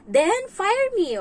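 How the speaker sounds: slow, high, loud defiant challenge; defiant dare. Retold or imitated. Helper daring the employer, slow and defiant. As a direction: dare the boss to fire you. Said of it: "basta, yung alam mo yun".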